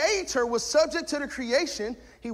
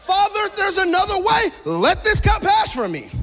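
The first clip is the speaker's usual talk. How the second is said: pleading prayer; 6 semitones higher, 6 dB louder than usual. Retold or imitated. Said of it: "Let's go to the Garden of Gethsemane".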